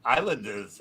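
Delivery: Islanders in Long Island speech, R dropped; Long Island accent. Shown as a demonstration. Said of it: "if you were really from Long Island".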